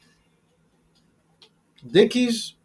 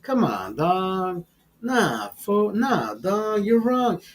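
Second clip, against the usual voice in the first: mock homie rant; 2 semitones higher than usual. Comic playing a homie bragging about last week's party, lightly mocking. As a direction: brag about partying, tag every line with fool.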